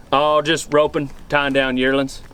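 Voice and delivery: slow, easygoing cowboy answer; laid-back ranch hand brushing off the question; casual cowboy reply. Acted. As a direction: drawl it out like a seasoned hand. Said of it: "When they say".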